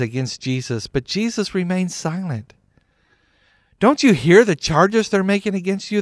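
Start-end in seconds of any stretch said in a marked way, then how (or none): 3.8-6.0 loud, high demand. A narrator's reading. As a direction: press him hard for an answer. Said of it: "the government demanded".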